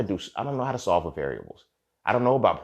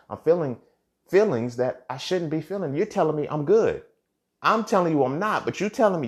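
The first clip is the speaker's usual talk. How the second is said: heated frustration; 7 semitones higher, 3 dB louder than usual. Real, not acted. Man venting on podcast about being told he's fine, heated. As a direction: pitch climbing high, voice pushing louder.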